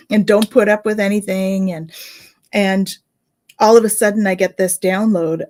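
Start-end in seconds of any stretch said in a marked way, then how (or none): none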